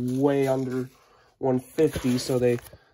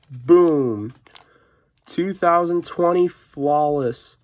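excited; 5 dB louder, slower than usual. Real, not acted. Unboxing the big prize card.

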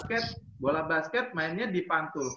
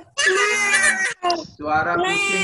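kitten voice; 6 dB louder, much slower than usual. Acted. Teacher meows along loudly.

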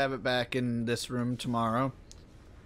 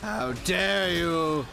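slow, drawn-out indignant reproach; mock outrage; 3 semitones higher, slower than usual. Player scolds game enemies over the eagle, slow mock outrage.

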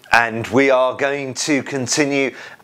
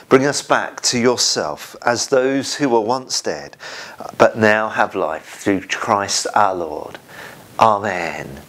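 prayer; 2 semitones higher than usual. Acted. Leads congregational confession prayer.

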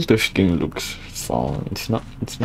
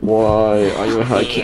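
slower, spelled-out repeat; slower than usual. Real, not acted. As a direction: say it again slowly so they hear.

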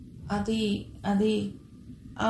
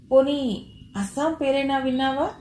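irritated question, pitched higher; Rahul, irritated; 4 semitones higher than usual. A narrator's reading. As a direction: ask it with mild exasperation. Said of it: "చికాగ్గా మొహం పెట్టి అడిగాడు రాహుల్". (కొంచెం చికాగ్గా అడిగినట్టు)

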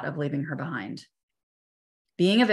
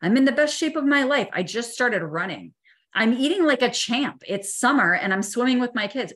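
rising panic; 7 semitones higher, 3 dB louder than usual. Retold or imitated. Panicked thoughts in the ambulance.

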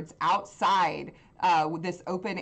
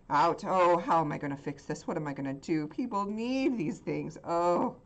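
freaking out. Acted. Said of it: "And he's, like, freaking out".

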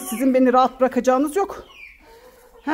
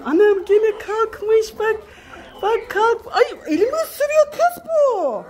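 much higher, slow squeal at the hens; half laughing squeak; 10 semitones higher, 4 dB louder, slower than usual. Real, not acted. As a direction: squeal as a hen nips your hand. Chicken pecking her hand.

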